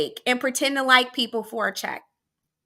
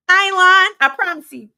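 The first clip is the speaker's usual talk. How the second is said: emphatic; 5 semitones higher, 9 dB louder than usual. Real, not acted. Insisting amid laughter.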